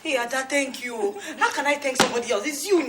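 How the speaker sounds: choked-up gratitude, half laughing; tearful thanks. Acted. Mother thanking her friend, laughing through tears.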